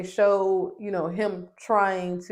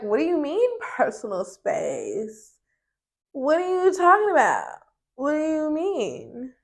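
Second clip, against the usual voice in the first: mocking Shanice; 6 semitones higher than usual. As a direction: ham up her fake confusion. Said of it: "she was like".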